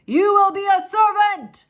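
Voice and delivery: high, loud shout. Acted. Soldier shouting to deaf Mig. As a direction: shout each word clearly. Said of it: "shouted the soldier".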